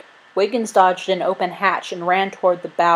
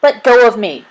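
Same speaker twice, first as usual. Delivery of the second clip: high, loud struggling yell; frantic yell; 5 semitones higher, 8 dB louder than usual. A narrator's reading. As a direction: yell to be released. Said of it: "Wiggins yelled".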